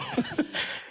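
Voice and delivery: sudden high-pitched giggle; high laugh burst. Real, not acted. Guest recalls odd looks, bursts into high laugh.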